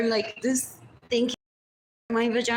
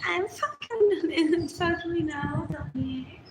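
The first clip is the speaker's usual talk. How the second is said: slow, higher mock come-on with a laugh; slow hammed-up mock flirting; mocking sultry; 5 semitones higher, 3 dB louder, slower than usual. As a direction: ham it up like a crude come-on. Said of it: "And then they're like".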